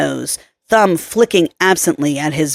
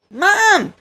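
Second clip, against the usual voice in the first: put-on little girl voice; 14 semitones higher than usual. Daughter grabs the phone.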